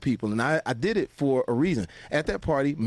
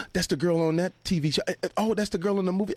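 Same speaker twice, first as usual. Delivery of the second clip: starstruck excitement; 6 semitones higher, faster than usual. Retold or imitated. Guest starstruck at the party.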